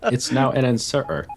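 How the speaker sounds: "inserter" with every T left out; mimicked dropped T's. Teasing a friend over his Scottish speech, "inserter" with no T's. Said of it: "remove all T's from the word".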